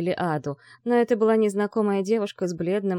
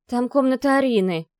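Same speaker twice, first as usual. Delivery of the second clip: ordinary delivery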